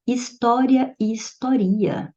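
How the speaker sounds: História stressed on tó, then historia stressed on ri; História noun, historia verb; contrasting stress. Shown as a demonstration. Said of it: "do verbo historiar".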